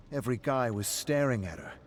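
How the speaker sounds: pleased with yourself, telling it; bragging. Acted. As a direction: show off to your friend. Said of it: "You said that part a few times now".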